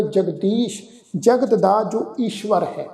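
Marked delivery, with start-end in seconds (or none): 0.0-0.8 ਜਗਦੀਸ਼ closing on sh; dotted sh sound. Shown as a demonstration. Teacher repeats correct reading, ਜਗਦੀਸ਼ ending in sh. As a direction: finish ਜਗਦੀਸ਼ with sh after the long ee. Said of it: "ਬਿੰਦੀ ਲਗਾ ਕੇ ਪਾਠ ਉਚਾਰਨ ਕਰਾਂਗੇ".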